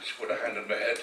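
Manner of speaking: hushed, emotional, close to tears; real grief, voice falling quiet; getting emotional. Real, not acted. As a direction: softly overcome remembering his dying mother. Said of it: "sorry, I'm getting emotional here".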